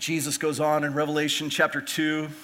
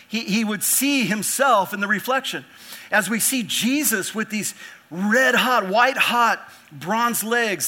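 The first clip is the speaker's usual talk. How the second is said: raised, punched-out preaching voice; emphatic preaching; 5 semitones higher, 5 dB louder than usual. Real, not acted. Preacher urging church to see themselves in Jesus, emphatic. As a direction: preach it with rising force on key words.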